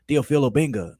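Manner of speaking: "Theophil" with no final o, ending on feel; imitating his "Theophil", clipped before Obenga. Echoing the speaker's "Theophil Obenga" pronunciation, imitated. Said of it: "He pronounced it Theophil".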